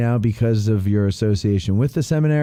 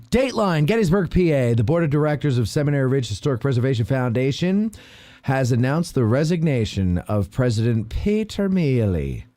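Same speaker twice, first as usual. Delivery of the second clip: light mock Irish accent, higher; 3 semitones higher than usual. Host reading the resignation news to listeners in a faint Irish accent. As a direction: read the news bulletin in a hint of Irish accent. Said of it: "why I was doing an Irish accent".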